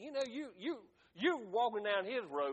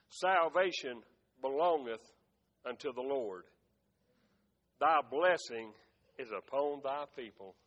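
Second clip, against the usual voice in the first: low, measured reading with long pauses; solemn scripture reading; 7 semitones lower than usual. Acted. Preacher reading a psalm to the congregation, solemn low delivery. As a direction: read it low, letting each phrase settle.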